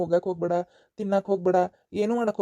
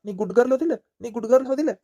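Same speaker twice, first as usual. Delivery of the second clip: higher, louder coaxing question; coaxing child; 5 semitones higher, 3 dB louder, faster than usual. Acted. Uncle coaxes the tearful girl, higher and louder. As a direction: coax a little girl to stop crying.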